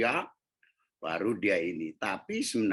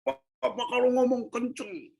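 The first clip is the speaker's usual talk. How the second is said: put-on much higher, complaining child; small child's voice; 4 dB louder than usual. Child complaining papa talks loud, high child voice. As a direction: pipe it up like a hurt little kid.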